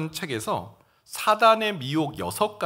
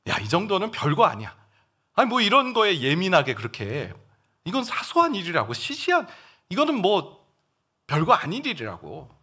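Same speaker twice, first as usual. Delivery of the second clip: higher, brushing it off as nothing; dismissive tempter; 3 semitones higher than usual. Acted. Preacher voicing Satan belittling sin to believers. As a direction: shrug the sin away.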